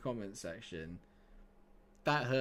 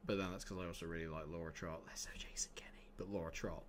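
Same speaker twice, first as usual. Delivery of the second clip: low, quick near-whisper; hushed aside; 5 semitones lower, 9 dB quieter than usual. Real, not acted. Streamer admitting a soft spot to viewers, hushed aside. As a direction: drop to a confiding whisper. Confiding aside about favourite couple.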